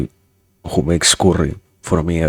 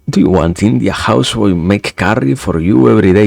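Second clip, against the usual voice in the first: raised, lightly put-on Indian accent; 3 semitones higher, 4 dB louder than usual. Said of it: "we don't want to ignore the accent".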